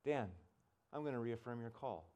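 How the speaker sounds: low, quiet inside voice; inner voice of God. Retold or imitated. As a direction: say it softly, like a voice heard within. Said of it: "inside voice say".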